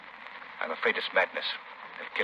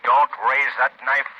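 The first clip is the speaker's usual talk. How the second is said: bend his will to drop the knife; commanding voice; 2 semitones higher, 4 dB louder than usual. Acted. The Shadow commanding the old woman to drop her knife.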